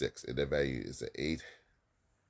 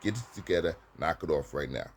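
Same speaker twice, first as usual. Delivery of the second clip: teacher's firm reprimand; 3 dB louder than usual. Shown as a demonstration. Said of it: "You say".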